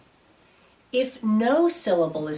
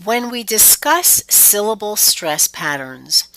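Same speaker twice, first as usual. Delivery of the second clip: whispering. Real, not acted.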